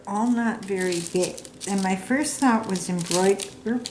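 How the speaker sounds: hiccuping mid-sentence; talking through hiccups. Real, not acted. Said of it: "I've got the hiccups again".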